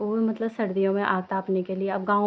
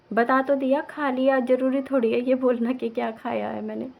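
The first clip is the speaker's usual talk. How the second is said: higher, mock-irritated retort; imitated exasperated dad; 3 semitones higher, 5 dB louder than usual. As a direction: play a dad fed up with questions. Imitates father's irritated retort on phone. (पापा की नकल, चिढ़कर जवाब)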